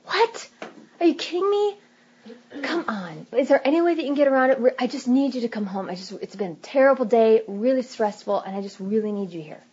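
shrill, disbelieving, then rushed pleading; exasperated wife who can't believe it; upset outburst. Retold or imitated. Wife upset at husband's phone call, exasperated and pleading. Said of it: "I have gotten really upset".

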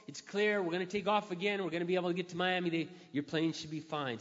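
cheery captain's all-clear; a hint of an airline pilot; pilot announcement. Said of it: "the pilot comes on".

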